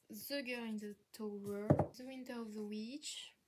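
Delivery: English title read slowly in a thick French accent. Real, not acted. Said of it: "Avec bien l'accent français".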